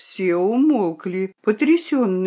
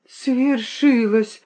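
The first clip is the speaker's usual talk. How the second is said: slow, drawn-out exclamation; exclaim; 4 semitones higher, much slower than usual. Acted. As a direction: announce the miracle slowly. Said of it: "воскликнул он".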